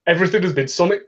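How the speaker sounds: reading in a light Yorkshire accent. Shown as a demonstration. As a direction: read it like a Yorkshireman. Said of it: "read this in a Yorkshire accent".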